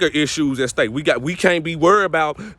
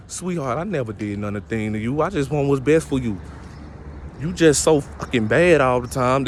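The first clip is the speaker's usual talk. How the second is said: narcissistic father; 2 semitones lower than usual. Retold or imitated. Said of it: "your narcissistic father gonna say".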